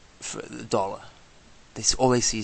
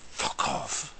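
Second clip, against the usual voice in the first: whispered curse; 5 dB quieter than usual. Real, not acted. Muttered curse at police.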